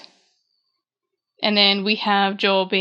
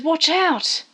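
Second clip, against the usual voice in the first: retold alarm, lightly acted; mock warning; 7 semitones higher than usual. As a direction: imitate a warning cry at talking volume. Retold sudden warning of attack.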